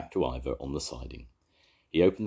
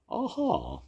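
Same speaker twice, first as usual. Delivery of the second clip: well-bred yell; 9 semitones higher than usual. A narrator's reading. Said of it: "a well-bred yell".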